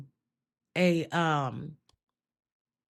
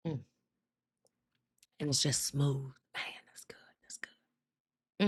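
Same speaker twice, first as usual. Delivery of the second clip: much softer, breath-only murmur of approval; savouring whisper; 3 semitones lower, 8 dB quieter than usual. Real, not acted. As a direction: whisper it to yourself, savouring the taste. Savouring a pumpkin spice drink.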